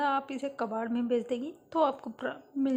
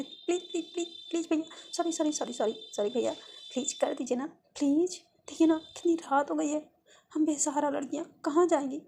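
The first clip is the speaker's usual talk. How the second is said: puppy-faced pleading; 3 semitones higher than usual. Acted. Sarika apologises to the angry mechanic, pleading puppy-eyed. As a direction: beg with big puppy eyes. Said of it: "पप्पी सा face बना के उससे please, please".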